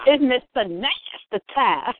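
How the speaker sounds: teasing slogan. Pretend. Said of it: "we're gonna start saying".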